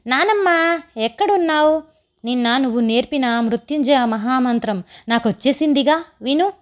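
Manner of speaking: lightly voiced child calling grandmother; eager grandson. Grandson's lines in narrated story.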